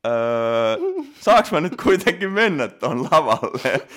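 high, loud, drawn-out mock plea; flustered pleading. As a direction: act out an awkward, worried question, hammed up. Retelling flustered question to the judge.

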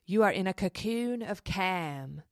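a light, slow Scottish lilt, softly; Scottish meditation voice. Retold or imitated. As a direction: imitate the calm Scottish app voice lightly. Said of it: "this Scottish woman".

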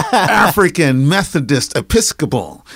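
"African Methodist Episcopal" said slowly, syllable by syllable; savored repeat. Shown as a demonstration. Interviewee repeats the church name to the host, savoring "African Methodist Episcopal" slowly. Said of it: "Let me say that again".

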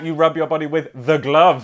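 "glove" said slowly and clearly; "with" stretched out before "glove"; careful slow explaining. Retold or imitated. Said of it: "So I'd be like".

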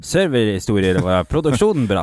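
imitating a mild north Norwegian accent; lightly mock the north Norwegian accent. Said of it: "Den var ganske mild nordlending".

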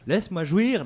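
high, loud mock plea; mock pleading. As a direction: beg in a hammed-up whine. Acted pleading quote.

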